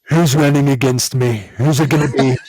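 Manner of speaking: low mock-politician challenge; Jesse impression. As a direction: mimic a governor sizing up a debate rival. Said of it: "he has a very interesting voice".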